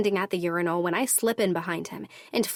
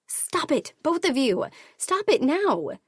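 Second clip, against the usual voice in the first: yelling to stop; 8 semitones higher than usual. Acted. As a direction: scream at them to break it up. Heroine yells at fighting men.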